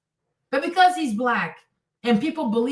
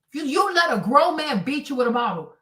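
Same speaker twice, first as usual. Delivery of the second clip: ordinary delivery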